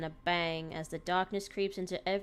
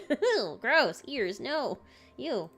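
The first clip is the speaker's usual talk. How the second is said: grossed out, higher and louder; disgusted; 6 semitones higher, 6 dB louder, much slower than usual. Real, not acted. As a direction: recoil at the image. Reader disgusted by the text.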